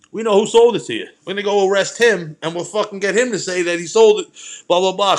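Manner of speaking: cocky sergeant. Retold or imitated. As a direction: play the sergeant bluffing hard.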